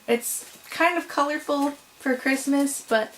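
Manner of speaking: talking with yarn in mouth. Real, not acted. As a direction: speak round a strand of yarn. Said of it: "got yarn in my mouth".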